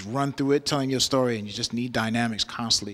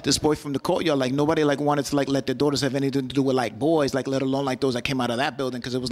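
put-on chatty girl's run-on monologue, barely pausing; Lily. Girl tells of her first love, chatty run-on voice. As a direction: rattle it on breathlessly like a gossiping teenage girl. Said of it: "And Lily is like".

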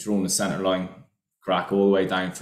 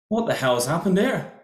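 higher-pitched mock-incredulous quote; retold alarmed demand; 9 semitones higher than usual. Owner walks out to the shattered window, mock alarm. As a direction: imitate a boss finding the damage.

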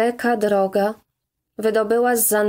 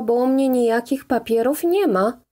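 plain reading voice

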